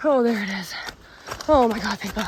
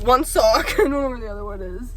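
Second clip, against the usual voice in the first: teary laugh. Real, not acted. Teary relief after hard hike.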